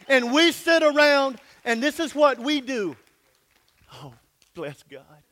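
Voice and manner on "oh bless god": soft, low, slow bottled-up praise; mocking the timid churchgoer, hushed; muted praise. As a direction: hold it all in under your breath. Mock adult restrained praise.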